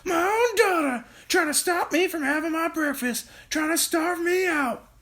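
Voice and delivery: put-on high, nasal old-hag rant; Grandma ranting. A narrator's reading. Grandma accusing her daughter, high whiny crone voice. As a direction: complain bitterly as a cranky crone. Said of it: "shouted Grandma".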